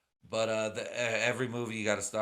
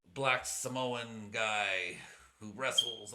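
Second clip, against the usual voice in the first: The Rock; much slower than usual. Acted. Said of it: "I can't do a fucking Rock accent".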